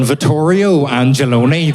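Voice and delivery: slow flat Belfast vowels; Belfast accent. Shown as a demonstration. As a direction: say it the Belfast way, slowly. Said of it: "It shouldn't be in a Belfast accent".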